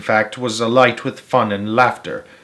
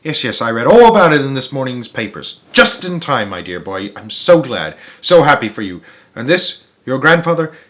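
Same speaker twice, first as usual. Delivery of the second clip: delighted Wonka; 3 semitones higher than usual. Acted. Wonka greets Charlie warmly.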